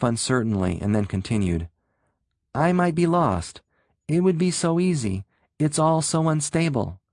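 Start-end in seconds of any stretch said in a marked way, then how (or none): 2.5-7.0 higher, worried and fearful; a scared voice barely holding together; trembling with fear. A narrator's reading. Shapeshifter begging Rick, trembling with worry and fear. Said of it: "The voice trembled with worry and fear".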